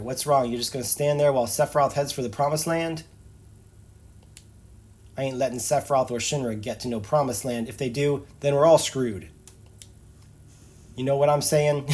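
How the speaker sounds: put-on Barret accent. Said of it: "my accents need work".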